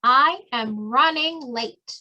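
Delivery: slow, careful teacher model; slow clear model phrase. Shown as a demonstration. Teacher modeling a phrase for Spanish-speaking learners, slow and clear. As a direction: say it slowly so learners can copy. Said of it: "Voy encarrerado".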